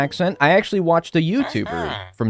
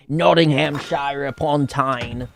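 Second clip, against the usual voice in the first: put-on spoof British place names in a slow British accent; mock British accent; 3 semitones higher, slower than usual. Streamer mocking British town names to chat, mock British accent.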